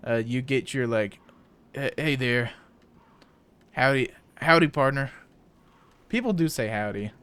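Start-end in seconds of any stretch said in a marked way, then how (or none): 1.7-5.1 put-on Wyoming cowboy accent. Wyoming cowboy greeting a partner, lightly imitated cowboy accent. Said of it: "it starts to get a little more cowboy".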